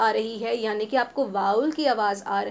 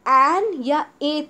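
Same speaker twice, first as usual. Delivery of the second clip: an या a drawn out louder; very slow, pointed; 3 semitones higher, 5 dB louder, much slower than usual. Shown as a demonstration. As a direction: hold each option out slowly. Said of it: "teacher pausing on options".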